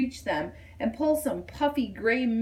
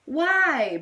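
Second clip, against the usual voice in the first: puzzled question; 6 semitones higher, 5 dB louder than usual. A narrator's reading. Bunny asks.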